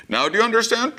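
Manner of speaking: high; high entity voice. Retold or imitated. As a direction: ask with bright high curiosity. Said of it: "it was like".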